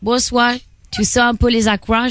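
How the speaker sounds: rough attempt at a Creole accent; lightly put-on French Caribbean Creole accent. Shown as a demonstration. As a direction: try a playful Creole accent. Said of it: "tu sais faire l'accent créole".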